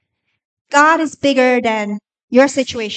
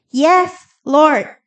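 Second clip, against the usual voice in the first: emphatic yes; 3 semitones higher, 4 dB louder than usual. Acted. Model answer to God.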